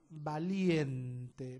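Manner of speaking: Valiente drawn out with weight on LIEN; stress on LIEN. Shown as a demonstration. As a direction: stretch the middle of Valiente: va-LIEN-te. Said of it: "dónde está el énfasis".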